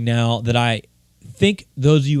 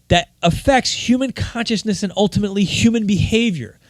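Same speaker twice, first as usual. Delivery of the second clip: worked up; 4 semitones higher than usual. Real, not acted. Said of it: "I'm so worked up right now".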